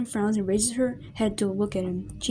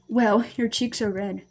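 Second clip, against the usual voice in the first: chuckling; 4 dB louder, slower than usual. Acted. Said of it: "Destiny chuckles slightly".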